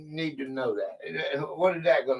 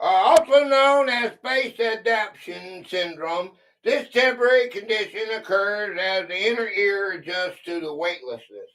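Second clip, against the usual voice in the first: reading a quiz clue; 3 semitones higher than usual. Acted. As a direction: clear read-aloud quiz voice. Reads the answer text aloud.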